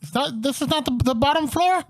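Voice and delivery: high, puzzled dragon voice; a confused dragon talking up high. Acted.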